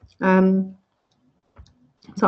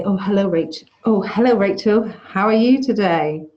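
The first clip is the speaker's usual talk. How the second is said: chatty angel greeting; 4 dB louder than usual. Pretend. Angel that won't greet her like this, mock cheery hello. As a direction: play the angel as a friendly caller dropping by. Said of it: "But he won't say".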